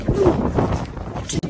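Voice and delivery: very slow, drawn-out musing hum; pondering. Retold or imitated. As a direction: mull it over slowly, at a loss. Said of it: "One of those days where I'm like".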